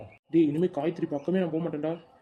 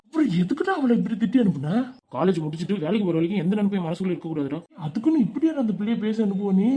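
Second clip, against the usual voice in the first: reproachful; 2 semitones higher, 4 dB louder than usual. Acted. Friend scolds Sidhu for Kayu.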